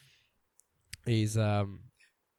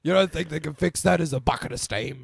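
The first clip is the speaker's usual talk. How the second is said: hammed-up mechanic rant; 5 semitones higher, 10 dB louder than usual. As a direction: drag it out like a scandalised tradie. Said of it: "He's like".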